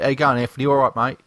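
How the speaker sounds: mock-British matey greeting; fake British accent. Host saying hello to a mate, in a fake British accent. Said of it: "he doesn't talk like that".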